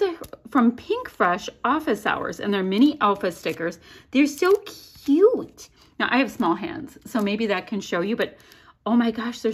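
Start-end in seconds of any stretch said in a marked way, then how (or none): 4.1-5.7 gushing. Real, not acted. Gushing over tiny stickers.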